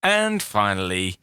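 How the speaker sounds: low, slow newsreader sign-off; radio news voice. Shown as a demonstration. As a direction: read it like a newsreader. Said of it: "in my best radio voice".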